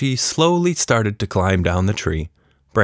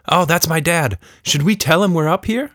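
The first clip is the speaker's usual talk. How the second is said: put-on higher girl voice asking; curious Tilda; 9 semitones higher than usual. A narrator's reading. Tilda in the treetop asking the creature, girl voice. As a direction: ask it like a curious kid.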